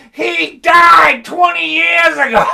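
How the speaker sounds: high, loud and slow; punchline shout. Real, not acted. Comic topping the bit, shouted slowly. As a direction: yell the punchline over the laughing crowd. Punchline yelled over laughter.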